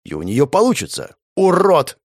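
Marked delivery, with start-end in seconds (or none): 1.3-2.0 high, loud furious yell; barking shout. Acted. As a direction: spit the insult at him. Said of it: "рявкнула девушка".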